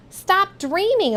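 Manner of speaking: put-on a lady scolding a careless boy, sharp cry. A narrator's reading. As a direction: scold him as he bumps into you. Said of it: "a lady cried".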